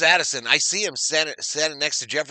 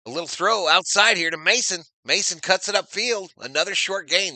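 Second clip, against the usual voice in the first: live play-by-play; 5 semitones higher, 4 dB louder than usual. Real, not acted. Calls a pass live.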